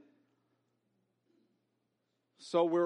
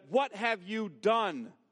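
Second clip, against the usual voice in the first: solemn rebuke; 3 semitones lower than usual. Acted. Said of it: "And the Lord said".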